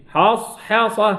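slow حصحصة, lingering on s; soft flowing sad. Shown as a demonstration. Teacher explaining the resting soft letter, drawn-out sad. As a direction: let the still sad in حصحصة flow. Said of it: "رخوي".

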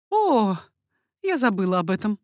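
struck by what she forgot; exclaiming. A narrator's reading. Margarita to the baroness, suddenly realising the danger, exclaiming. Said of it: "воскликнула Маргарита".

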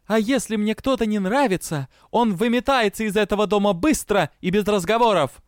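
high, loud menacing ultimatum; open threat. A narrator's reading. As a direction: threaten without holding anything back. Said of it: "мрачно и не сдерживая угрозы".

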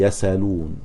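"يسألون" as yasalūn, hamza dropped, sin takes the fatha; Hamza's pause on "يسألون", sin carries the fatha; pausal reading. Shown as a demonstration. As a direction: say "يسألون" with no glottal stop. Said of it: "إذا وقف عليه يقول".

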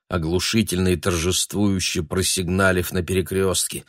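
usual speaking voice

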